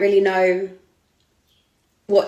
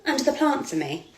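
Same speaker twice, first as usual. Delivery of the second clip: mocking the photographer; 8 semitones higher than usual. Photographer asking her to lie under the plant, high mock voice. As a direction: imitate his wheedling ask. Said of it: "And he went".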